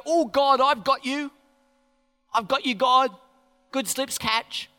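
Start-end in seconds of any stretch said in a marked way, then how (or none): 0.0-3.1 high, loud, eager call; Uzzah grabbing ark. Retold or imitated. Uzzah reaching out to catch the ark, loud high cry. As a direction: grab the ark and shout it up. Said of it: "tries to go".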